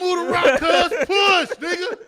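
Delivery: loud, high barked orders; shouting command. Acted. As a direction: yell orders at the crew. Movie quote shouted.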